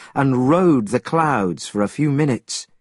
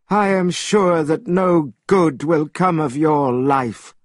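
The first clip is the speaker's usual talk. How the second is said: stern immortal; 6 semitones higher than usual. A narrator's reading. Immortal's held voice.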